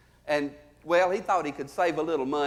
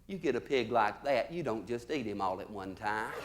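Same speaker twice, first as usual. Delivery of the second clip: quiet deadpan punchline; 8 semitones lower, 9 dB quieter than usual. Retold or imitated. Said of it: "She said".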